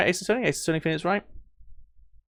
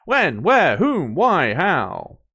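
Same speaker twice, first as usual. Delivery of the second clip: dramatic whom; 3 semitones higher, much slower than usual. Acted. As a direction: fire off "Whom" as a theatrical demand. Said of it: "It's actually correct".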